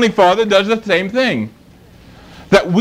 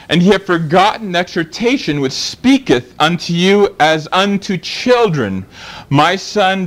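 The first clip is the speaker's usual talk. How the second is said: scripture reading. Acted. Preacher reading Hebrews to the congregation, measured. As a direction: read the verses with reverence.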